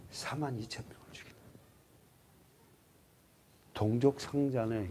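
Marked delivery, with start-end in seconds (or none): 0.1-1.4 whisper. Real, not acted. Dramatic toll of the dead.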